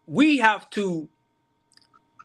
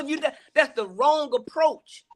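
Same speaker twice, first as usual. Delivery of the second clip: laughing; 6 semitones higher than usual. Real, not acted. Laughing at his own example.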